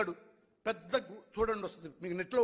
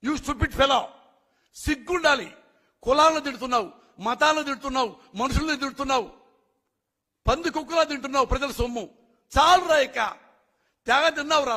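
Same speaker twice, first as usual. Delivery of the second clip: furious shout; 4 semitones higher, 7 dB louder than usual. Real, not acted. Furious tirade at a politician.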